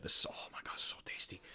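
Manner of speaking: hushed, whispered craving; faint, breathy whisper of food lust; overcome with hunger. Real, not acted. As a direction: whisper it to yourself in awe of the food. Overcome by hunger over tasty food.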